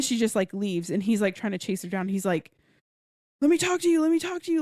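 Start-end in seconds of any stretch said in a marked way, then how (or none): 3.4-4.6 high-pitched imitation of begging; mock pleading. Bennett chasing Addie down as she leaves, in mock pleading. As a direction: plead insistently, hammed up. Retold plea while chasing her.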